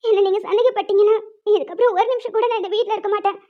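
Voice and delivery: tearful threat to leave; crying. Acted. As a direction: speak through tears with caught breaths. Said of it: "அதுக்கே இவ்ளோ அழுகுற". (அழுதுகொண்டே மிரட்டுதல்)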